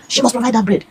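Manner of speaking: high-pitched, indignant imitation; mock outraged order; table-smashing demand. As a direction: mimic someone insisting angrily. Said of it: "smashing the table and saying".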